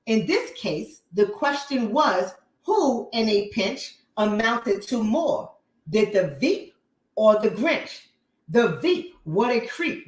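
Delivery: reading a rhyming poem aloud with relish; poem read with a light mocking bounce. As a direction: read it like a mocking nursery rhyme.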